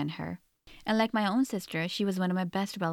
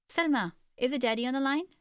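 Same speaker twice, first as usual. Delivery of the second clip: calling out; 6 semitones higher than usual. Acted. Mother calls from the kitchen to her daughter at the phone, calling out. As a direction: call across the house to her daughter. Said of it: "Mommy called out from the kitchen".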